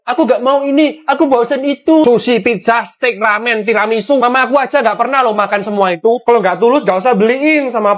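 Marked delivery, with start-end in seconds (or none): 0.0-4.2 whiny mock of a picky girlfriend, higher. Boyfriend mocking his girlfriend's whiny demands. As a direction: mimic her fussy complaints. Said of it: "Sekarang pakai".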